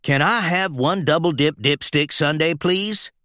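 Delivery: lightly put-on customer voice; a sly trickster hiding his identity; disguised voice. Disguised truck orders ice cream.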